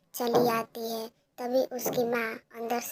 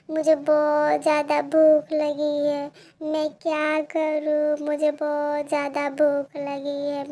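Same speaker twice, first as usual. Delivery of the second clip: put-on crying child; 3 semitones higher, 5 dB louder than usual. Pinky alone under a tree, hungry and crying. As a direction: sob out your hunger.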